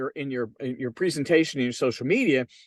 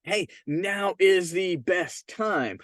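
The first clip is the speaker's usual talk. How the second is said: slow confident pitch; much slower than usual. Shown as a demonstration. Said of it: "Your whole campaign can be".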